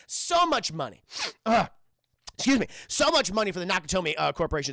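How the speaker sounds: a hint of a boastful schmoozer; coked-up smooth talker. Hostage pitching his deal to John, breezily boastful. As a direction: lightly act a self-satisfied dealmaker. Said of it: "he's on so much cocaine".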